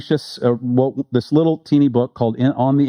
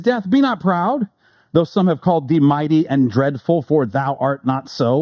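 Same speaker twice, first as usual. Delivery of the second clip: poem reading. Acted. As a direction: read it like verse from the pulpit. Reads Donne sonnet aloud.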